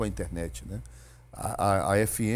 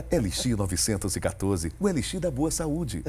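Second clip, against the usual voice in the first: ad announcer. Acted. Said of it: "com três vozes".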